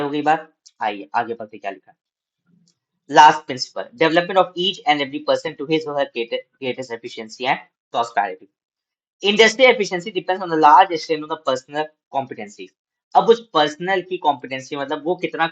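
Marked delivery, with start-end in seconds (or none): 3.1-12.7 slow, measured reading aloud to students; slow classroom read-aloud; slow textbook reading. Acted. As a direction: read each phrase out deliberately for the class.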